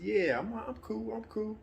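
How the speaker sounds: dad's voice. Retold or imitated. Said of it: "He said".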